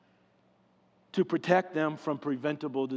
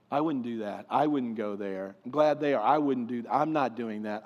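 mock self-righteous; 5 semitones lower than usual. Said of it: "when people start sentences with the word I".

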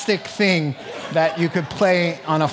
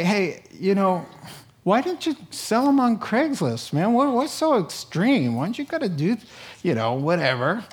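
mock skeptic; 5 semitones higher than usual. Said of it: "you could say".

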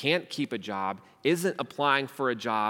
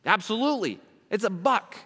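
higher, louder, easy agreement; breezy cheerful yes; 8 semitones higher, 4 dB louder than usual. Retold or imitated. Cultural social justice answering the beggar, breezy and eager. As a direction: agree brightly without a second thought. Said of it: "What would cultural social justice say?".

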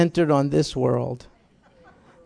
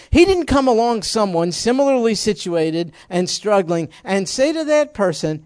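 louder, higher, pressing the point; preacher to the congregation, louder and higher; raised preaching voice; 4 semitones higher, 3 dB louder than usual. Real, not acted.

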